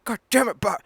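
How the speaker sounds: high, loud exasperated cry; mock Hank Hill exclamation. Quoting the cartoon, a high exasperated yelp. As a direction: yelp it like an annoyed cartoon dad. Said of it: "No, no, he doesn't say God".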